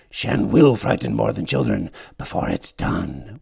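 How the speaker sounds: whispered warning. Acted. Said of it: "whispers Sychus".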